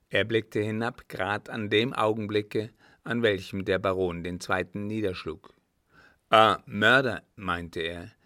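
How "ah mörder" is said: loud, alarmed outburst from the father; alarmed exclamation. A narrator's reading. Father sees the killing below, loud alarm. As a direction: exclaim it loudly in mild alarm.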